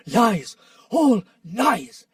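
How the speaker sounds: loud, cutting denial; angry denial. Acted. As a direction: slam it down. Badger interrupts angrily.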